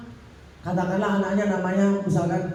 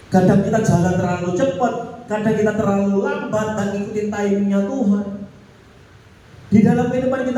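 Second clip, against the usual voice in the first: preaching loudly; 4 dB louder than usual. Real, not acted. Preacher raises voice.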